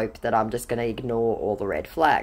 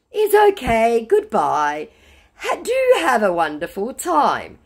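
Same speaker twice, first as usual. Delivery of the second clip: higher, louder put-on voice; mock a scammer's drawn-out goodbye; scammer's farewell; 8 semitones higher, 5 dB louder, slower than usual. Scammer bidding farewell to his accuser, high mock politeness. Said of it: "something another scammer said to me".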